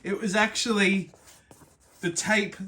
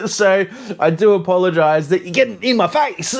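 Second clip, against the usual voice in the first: laughing shout; 8 dB louder than usual. Real, not acted. Laughing while talking to camera.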